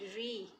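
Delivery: री said clearly as one "ree" syllable; pronounced as "ree". Shown as a demonstration. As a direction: say री as "ree" with a long ee. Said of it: "आप इसको कैसे pronounce करेंगे". ("री" का उच्चारण लंबी ई के साथ)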